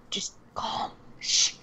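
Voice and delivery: soft, whispered calming; quiet, breath-only "shh" to settle someone; hushing. Pretend. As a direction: hush a panicking friend. Player acts hushing a panicking runner.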